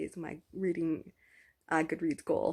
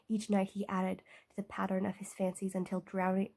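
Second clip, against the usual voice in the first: reading aloud. Acted. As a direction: read it like treasured prose. Reads Gatsby passage aloud.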